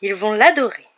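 loud, swooping rapture; thrilled, doting aunt; delighted exclamation. A narrator's reading. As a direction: gush with adoring delight. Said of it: "s'exclama la tante Pétunia avec ravissement".

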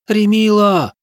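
high desperate call; shouted name. Acted. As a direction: cry out the name. Zora cries out his name.

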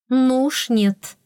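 slow, decisive no; firm refusal. Acted. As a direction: shut it down firmly. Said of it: "решительно отклонила".

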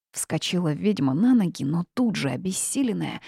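ordinary delivery

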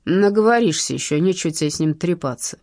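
venomous mockery. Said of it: "сочился ядом и издёвкой".

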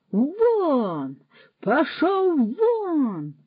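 high, dragged-out crying "вон"; furious yell. A narrator's reading. Suchok stamps and yells Roman out, furious. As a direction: stamp and bellow him out. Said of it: "аж затупотів ногами Сучок".

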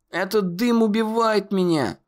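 high, choked cry; gasping. A narrator's reading. Conor choking in smoke, gasping. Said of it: "задохнулся Конор".

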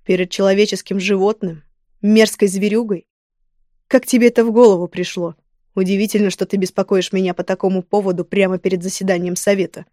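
fury. Acted. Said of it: "чтобы он услышал ярость в моём голосе".

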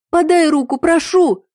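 пронзительно высоко и громко, в панике; пропищи в ужасе; пискливая мольба. A narrator's reading. Тонущая героиня молит о помощи. (испуганный писк)

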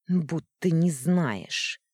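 с брезгливой гримасой, громче и медленно; выдави с отвращением; гадливо. Acted. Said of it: "гадливо скривилась та". (брезгливо и медленно)

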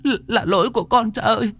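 high, frantic begging; panicked pleading. Acted. Daughter begging her father not to fight, panicked. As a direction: cry out to stop her father. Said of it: "con Lài la lên".

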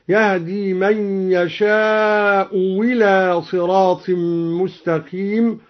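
إلى after يشاء said with w, "yashaa'u wila"; hamza turned to waw. Shown as a demonstration. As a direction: replace the hamza of إلى with a clear w. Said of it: "أبدلها واوا".

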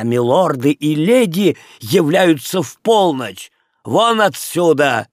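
выше, гонит прочь со злостью; презрительно выкрикивая, выгоняет бродяг; сердитый крик. Acted. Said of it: "крикнул он". (хозяин выгоняет Леона и Эльвиру, зло крича)

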